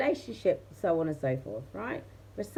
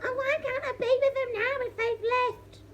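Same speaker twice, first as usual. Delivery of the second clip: mock pleading; 10 semitones higher than usual. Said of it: "Everyone's like".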